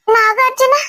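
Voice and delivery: name blurted out high and loud in horror; mother hearing the culprit's name, cries it out in shock; shocked gasp of a name. Acted.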